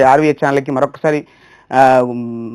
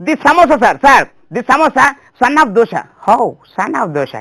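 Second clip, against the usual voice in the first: higher, eager broken English; waiter's broken English; 6 semitones higher, slower than usual. Retold or imitated. Hotel waiter explaining to English customer in higher, eager broken English. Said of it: "పనిచేసే అతనికి తెలుగు తప్ప English రాదు".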